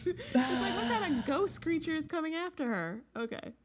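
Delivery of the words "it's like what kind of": laughing through the words, high; cracking up mid-sentence. Real, not acted.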